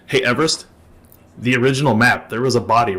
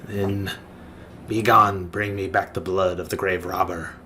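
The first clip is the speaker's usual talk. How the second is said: measured, slightly lowered commanding voice; solemn undead master; 5 semitones lower, 6 dB quieter than usual. Acted. Undead master orders the party to fetch blood, solemn. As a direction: dismiss them with quiet authority.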